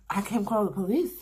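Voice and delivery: quoting a friend's put-on Jamaican accent. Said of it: "He put on his Jamaican accent".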